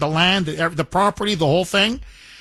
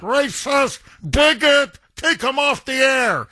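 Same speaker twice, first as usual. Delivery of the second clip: high shrill mock-outraged accusers, higher; mock outrage; 7 semitones higher than usual. Host parodying outraged critics, hammed-up outraged voice. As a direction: sneer out the accusers' cries. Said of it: "jokingly tease a foreigner".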